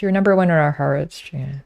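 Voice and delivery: playful over-the-top affection; mock sweet declaration. Shown as a demonstration. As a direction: sell it like a cheesy compliment. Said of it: "Do you want me to say".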